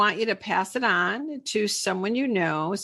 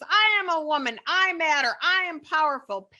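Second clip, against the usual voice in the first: cheerleader; 5 semitones higher than usual. Shown as a demonstration. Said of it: "Cheerleader voices".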